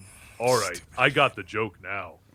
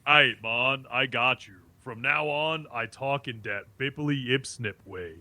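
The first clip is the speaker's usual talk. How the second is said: put-on light Jamaican accent. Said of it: "I want you to talk like this guy".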